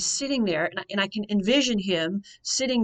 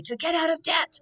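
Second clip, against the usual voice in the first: forceful; 9 semitones higher, 3 dB louder than usual. Retold or imitated. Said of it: "He was so forceful".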